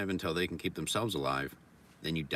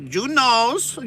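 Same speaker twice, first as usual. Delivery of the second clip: very high, loud squeal; squealed pun; 13 dB louder than usual. Pretend. Repeating the pun as a very high, loud squeal. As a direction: shriek the pun.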